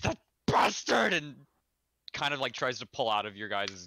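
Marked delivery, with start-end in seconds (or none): 0.0-1.1 sudden, shrill, loud, very high scream. Game narrator voicing a woman who interrupts the players, screaming. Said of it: "just screams".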